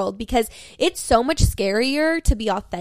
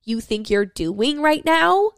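mock temper tantrum; slower than usual. Yelling at the universe in a playful mock tantrum. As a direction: scold the universe in pretend outrage. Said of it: "throwing a temper tantrum at the universe".

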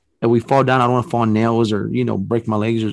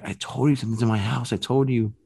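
stifled scream; 5 dB quieter than usual. Retold or imitated. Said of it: "she wanted to scream, but she couldn't".

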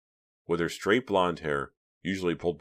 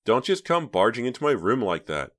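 louder, higher sharp call of his name; scolding; 7 semitones higher, 6 dB louder than usual. A narrator's reading. Reva scolding her little brother, sharp. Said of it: "she scolded".

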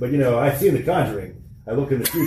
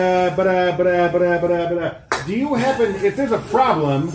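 put-on halting Boston accent, stammering; light Boston tough guy, stalling; 5 semitones higher than usual. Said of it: "keep doing the Boston accent".

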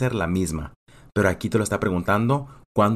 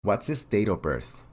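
a lightly voiced officer asking questions, a little softer; calm, businesslike interviewer running through the questions, pausing for answers; immigration officer; 5 dB quieter than usual.

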